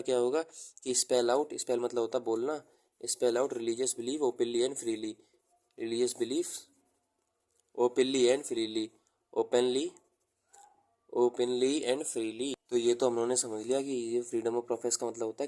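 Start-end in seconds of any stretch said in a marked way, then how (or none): 3.0-12.5 slowly dictate, pausing between phrases; drawn-out words for students copying notes; slow dictation. Real, not acted. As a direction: dictate in short, slow chunks. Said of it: "मैं इसको धीरे धीरे बोल रहा हूँ".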